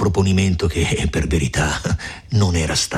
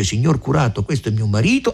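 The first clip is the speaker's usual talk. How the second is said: the woman's words; 4 semitones higher, faster than usual. Retold or imitated. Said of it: "la donna dice".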